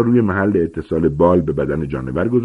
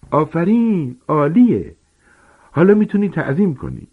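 higher, hearty gamekeeper voice; booming, eager teacher giant; Hagrid explaining; 11 semitones higher than usual. Acted. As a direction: lecture the class like a big friendly giant. Hagrid encourages Harry.

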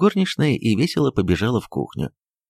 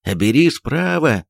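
окрик; 3 semitones higher, slower than usual. Acted. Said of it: "орал дворник".

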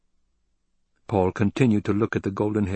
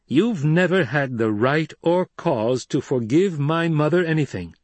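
cold anger; 7 semitones higher, 3 dB louder than usual. A narrator's reading. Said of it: "Paul stilled a cold, piercing anger".

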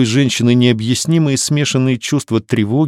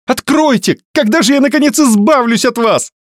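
higher, lamenting woman's cry; wailing; 13 semitones higher than usual. Acted. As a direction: wail at the locked door. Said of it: "бить кулачками и причитать".

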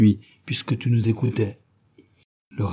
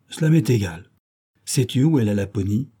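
put-on robber girl voice. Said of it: "elle dit".

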